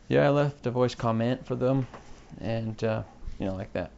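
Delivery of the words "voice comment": comment stressed on the end, com-MENT; wrong-syllable stress. Shown as a demonstration. Podcaster using it in context, stress on com-MENT. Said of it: "use it in context".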